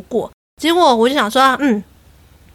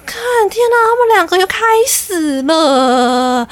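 exasperated inner groan; 7 semitones higher than usual. Retold or imitated. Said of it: "我想说".

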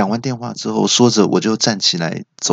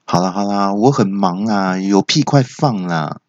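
impatient; 3 semitones lower than usual. Acted. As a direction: brush the caller off, dragging the words. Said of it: "护士跟我讲的有点不耐烦". (不耐烦地拖长音)

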